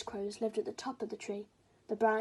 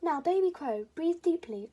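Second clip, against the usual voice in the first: higher, louder coaxing voice; coaching mother; 6 semitones higher, 6 dB louder than usual. Acted. Mother teaching baby to sing, coaxing. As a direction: coach him along gently but firmly.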